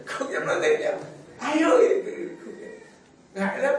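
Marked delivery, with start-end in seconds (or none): 1.4-2.0 high, louder coy "Ai ơi"; shy mother's call. Retold or imitated. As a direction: call shyly, avoiding the name. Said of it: "retelling mother's call".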